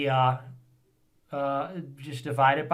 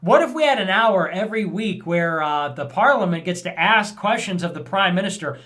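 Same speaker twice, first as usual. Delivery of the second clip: mocking parliament; 2 semitones higher, 3 dB louder than usual. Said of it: "It's like".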